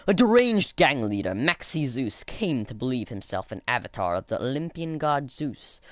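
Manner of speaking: hammed-up bombastic read; bombastic accent. Gamer reading a villain bio, going bombastic. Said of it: "do a really bombastic accent".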